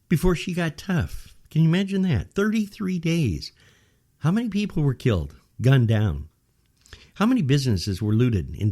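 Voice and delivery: outraged disbelief at the mayor; back in my day rant. Real, not acted. Indignant rhetorical questions at mayor.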